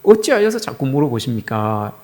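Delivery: retold, understated exasperation; lightly imitated irritated protest; mildly irritated. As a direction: ask with a touch of annoyance. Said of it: "이제 짜증이 좀 난 거예요".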